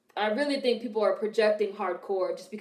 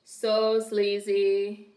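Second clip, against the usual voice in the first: drawn-out disgust; much slower than usual. Real, not acted. Mocking a movie character.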